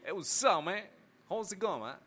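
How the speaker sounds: street American English slang; street English accent. Retold or imitated. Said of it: "yo hablo bien calle".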